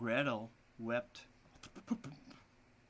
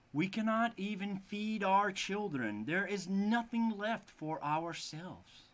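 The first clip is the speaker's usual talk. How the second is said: worried father; 6 semitones higher, 3 dB louder than usual. Acted. Worried father voiced in story.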